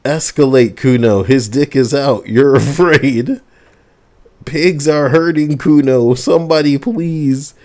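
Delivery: high, loud hammed-up child's screaming; full blast yelling. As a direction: yell it at full blast for the neighbours. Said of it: "It's full blast now".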